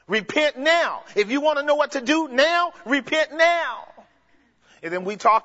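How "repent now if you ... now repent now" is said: command voice. Shown as a demonstration. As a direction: preach it as an order for right now. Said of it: "that would have been the right voice".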